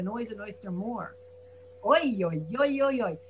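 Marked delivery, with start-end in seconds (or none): 1.8-3.2 Jewish oy. Shown as a demonstration. Teacher demoing a Jewish exclamation of woe. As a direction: lament "Oy, oy, oy" with a wailing lift. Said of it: "Jewish speech".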